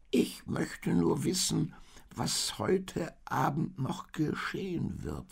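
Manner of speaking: high, slow sheep voice; curious sheep. A narrator's reading.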